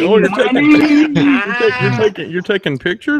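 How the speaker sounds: high, drawn-out mock voice; mock Gary. Host mocking a friend in a photo, high drawn-out voice. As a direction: imitate him in a slow, squeaky-high exaggeration. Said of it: "Here's old Gary looking like".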